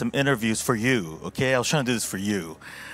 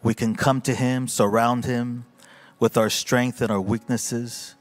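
preaching. Acted. Pastor closing the sermon for the congregation, emphatic preaching. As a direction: lean into each God with conviction.

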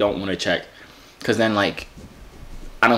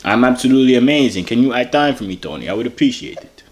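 badly faked German accent, careful and polite; fake German accent. Prankster in disguise asking stranger for time, fake German accent. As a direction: put on a vague European accent. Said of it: "The accent. Um, I'm German".

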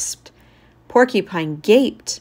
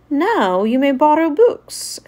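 smiling; 6 semitones higher, 4 dB louder than usual. Acted.

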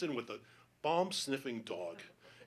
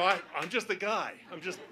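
higher, helpless protest; flustered excuse; 4 semitones higher, 3 dB louder than usual. Retold or imitated. Stranger explaining himself to a dog owner, flustered. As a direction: plead ignorance, voice rising.

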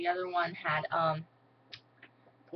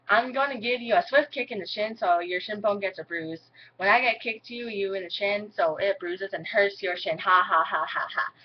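mock threat. Shown as a demonstration. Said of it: "I'm gonna say this four".

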